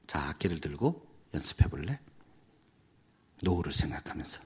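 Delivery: soft, low teacher's invitation; gentle coaching. Retold or imitated. Music teacher invites a student to practise, gentle coaching. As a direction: coax softly, keeping it low.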